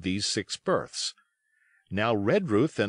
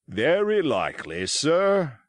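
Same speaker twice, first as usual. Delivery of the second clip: dry reply; 5 semitones higher, 4 dB louder, slower than usual. Acted. Captain's dry reply to doctor.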